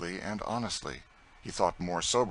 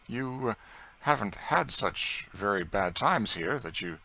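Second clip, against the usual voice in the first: dryly. Acted. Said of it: "he said dryly".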